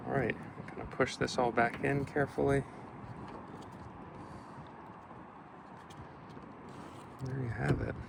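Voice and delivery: gusty wind hitting the microphone; wind on mic. Real, not acted. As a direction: wind noise over the mic. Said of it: "Sorry for the wind out here".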